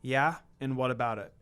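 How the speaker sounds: cool, unbothered answer; calm reply. A narrator's reading. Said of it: "I say back calmly".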